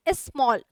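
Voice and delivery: "स्मॉल" in two beats, is-mol; "स्मॉल" with a short i before the s; two-syllable demo. Shown as a demonstration. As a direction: sound out "स्मॉल" as is-MOL, evenly. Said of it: "दो syllable हो गए".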